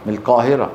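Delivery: القاهرة with ق said close to k; Egyptian k-like Qaf. Shown as a demonstration. Teacher imitating brothers from Egypt, ق as k. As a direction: soften the ق of القاهرة towards ك. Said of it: "لا هي قاف ولا هي إيه؟".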